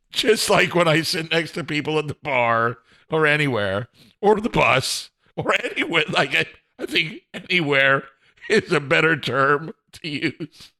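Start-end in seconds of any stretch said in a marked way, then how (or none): none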